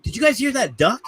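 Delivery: high, innocent question; mock innocent high voice; feigned innocence. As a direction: play dumb about the duck. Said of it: "poked my head around and went".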